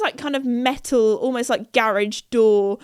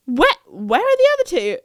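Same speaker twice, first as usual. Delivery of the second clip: higher, stammered alarm; alarmed question; 6 semitones higher, 4 dB louder than usual. Retold or imitated. Friend returning to find two missing, alarmed. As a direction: ask in sudden confusion.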